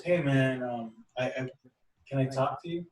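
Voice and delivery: mildly hesitant retold approach; timid. Young man approaches a stranger to talk, mildly timid. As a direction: imitate someone shyly asking to talk. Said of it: "a little timid".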